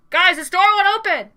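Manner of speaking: high, very loud panicked-player yell; sudden scream. Acted. Game master voices player's outburst at friends, screaming. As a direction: blurt it out as a full scream. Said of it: "all of a sudden, you scream it".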